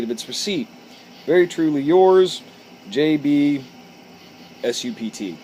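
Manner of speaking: reading a business letter aloud, measured and formal; a stiff, formal letter read aloud. Acted. Reads the original letter aloud.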